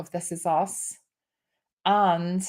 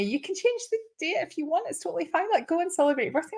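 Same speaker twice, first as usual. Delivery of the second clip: higher, softer, gently reassuring; reassuring client; 9 semitones higher, 4 dB quieter, faster than usual. Retold or imitated. A client gently reassuring the host about her birthday. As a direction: soothe her, tell her it's fine. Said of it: "one of them had said to me".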